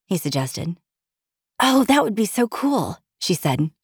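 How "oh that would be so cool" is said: higher-pitched, wide-eyed excitement; light up at a thrilling suggestion; excited. A narrator's reading. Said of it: "eyes suddenly wide with excitement".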